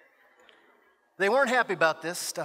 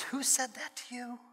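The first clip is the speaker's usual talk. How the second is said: soft, higher-pitched concerned question; protective God; 4 semitones higher, 9 dB quieter than usual. Acted. God to his hurt child, hushed indignant question. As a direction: ask it hushed, with held-back indignation.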